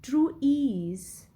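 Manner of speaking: true unstressed, ease stressed and drawn out. Shown as a demonstration. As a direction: read it as an iamb, weight on "ease". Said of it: "we will read it out like this".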